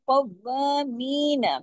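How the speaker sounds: कौवा slow, waw doubled and its a held long; Quranic recitation. Shown as a demonstration. Teacher models the doubled waw in कौवा. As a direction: hold the a of कौवा an alif long. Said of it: "मीम को दो हरकत खींचेंगे".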